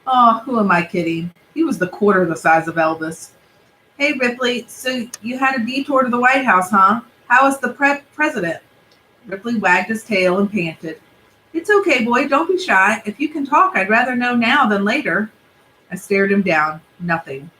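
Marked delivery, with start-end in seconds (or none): 4.0-15.3 put-on a boy coaxing a dog, a little higher; gentle kid voice teasing the dog; lightly voiced boy. Young Benji coaxing Ripley to talk, lightly higher.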